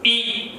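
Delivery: ई said through the nose as nasal ĩ; nasal vowel. Shown as a demonstration. Teacher shows students the chandrabindu ई, said nasal ĩ. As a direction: let ई ring nasally, like chandrabindu ĩ. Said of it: "इसी का उच्चारण करते तो थोड़ा परिवर्तन हो जाता है".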